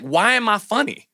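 exasperated self-questioning, lightly acted; mock frustration. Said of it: "And I got mad".

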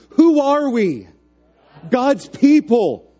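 loud high call, slow answer; call and response. Real, not acted.

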